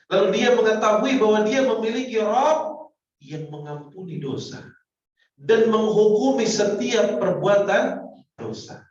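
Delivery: loud, high preaching swell; preaching at full force. Acted. Preacher exhorting the congregation, loud and high. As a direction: drive the point home to the crowd.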